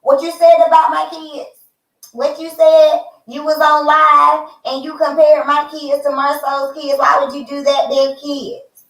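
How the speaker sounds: mock angry man yapping about his kids; yapping little dog. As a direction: yap it out like a riled little dog. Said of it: "like a little yapping dog".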